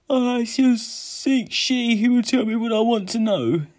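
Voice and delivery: high, loud, sustained voice; insistent declaration. A narrator's reading. Drowsy hero declares his quest.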